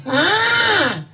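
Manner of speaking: put-on high-pitched puppet child voice; puppet kid voice. Ventriloquist's puppet boy gawks at the crowd, high-pitched. Puppet Ayo teases the kids.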